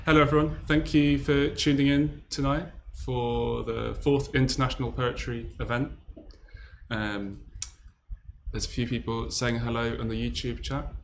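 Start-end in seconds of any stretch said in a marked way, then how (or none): 0.1-5.9 louder, raised-pitch host's welcome; welcoming the audience. Real, not acted. Host opening an online poetry night to viewers, projected welcome. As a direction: open the event with a loud, projected greeting.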